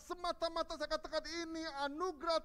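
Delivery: high and loud fervent preaching; preaching at full force. Acted. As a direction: drive the point home to the whole church. Preaching climax to congregation.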